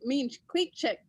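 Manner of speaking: each word set carefully apart; measured, separated words; deliberately slow. Real, not acted. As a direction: say it slowly and distinctly, word by word. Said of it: "you gotta say that very slowly".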